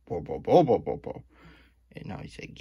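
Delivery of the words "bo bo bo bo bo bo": imitating Chris's babble. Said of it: "And Chris went".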